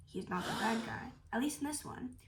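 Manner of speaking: unvoiced spoiler whisper. Real, not acted. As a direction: breathe it like a secret. Spoiler aside to viewers.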